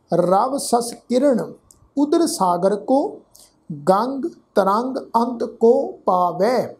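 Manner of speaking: measured, deliberate chanting of the verse; slow scripture recitation. Acted. Teacher recites the savaiya to the sangat, slow and measured. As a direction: recite each word slowly and clearly.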